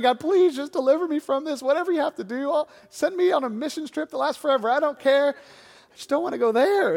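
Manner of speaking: retold desperate bargaining with God; pleading prayer. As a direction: beg to be let off, hammed-up. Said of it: "but I kept praying".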